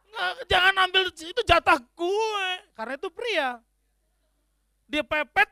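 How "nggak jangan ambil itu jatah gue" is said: higher, louder mock claim of the lane; mock macho driver. Male driver blocking a car, mock territorial and loud. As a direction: play the territorial driver guarding his lane.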